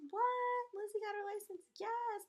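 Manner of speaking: high, loud mock gasp of disbelief; high-pitched playful fake shock; mock astonishment. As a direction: play the stunned crowd, then answer. Voices an imagined astonished audience.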